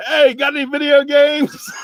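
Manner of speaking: high, loud holler from a car; mimicked drive-by yell; imitated yell. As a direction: call out like hailing strangers from a passing car. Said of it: "yelling out".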